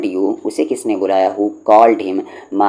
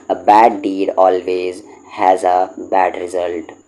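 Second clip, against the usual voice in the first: slow dictation; slower than usual. Shown as a demonstration. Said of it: "याद कर लें इन सबको".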